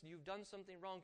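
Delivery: soft, gentle conviction; the Holy Spirit convicting quietly, with love. Acted. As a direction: say it softly like a comforter. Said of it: "the Holy Spirit says quietly".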